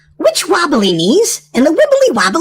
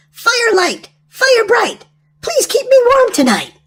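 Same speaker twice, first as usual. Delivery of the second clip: high sing-song spell chant; witch casting a spell; 9 semitones higher, slower than usual. Acted.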